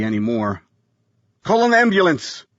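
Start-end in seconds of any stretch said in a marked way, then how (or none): 1.4-2.4 high, urgent command. A narrator's reading. Mitchell ordering the nanny to call, urgent command. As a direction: give a sharp order. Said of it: "Mister Mitchell commanded".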